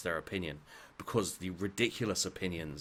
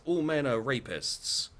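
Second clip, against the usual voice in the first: mock strident claim; 7 semitones higher, 4 dB louder than usual. Quoted extreme claim, acted.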